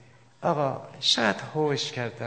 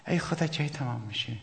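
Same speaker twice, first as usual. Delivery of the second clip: bored sigh. Retold or imitated. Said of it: "یه نماز با کسالت".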